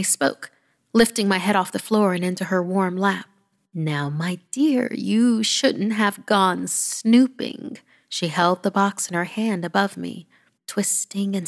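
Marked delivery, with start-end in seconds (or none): 3.7-7.8 gentle granny. Acted. Granny gently scolds child.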